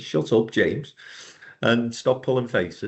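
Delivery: ordinary talk, nothing marked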